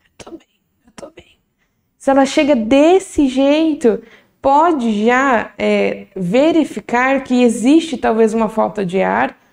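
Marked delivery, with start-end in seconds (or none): 0.2-1.4 barely audible, breathy, held-in inward murmur. Acting out a patient arriving at the hospital, quiet, inward mumble. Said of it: "falando baixinho para dentro".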